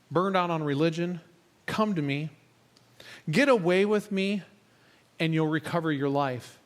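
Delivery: slow, measured phrases with long pauses; scripture reading. Acted. Preacher reads Jesus' invitation to church, slow and measured. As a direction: read it out slowly, letting each invitation settle. Reads a Bible paraphrase aloud.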